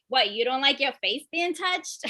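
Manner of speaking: sister's New York accent, imitated. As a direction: put on a New Yorker's challenge. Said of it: "She's from New York".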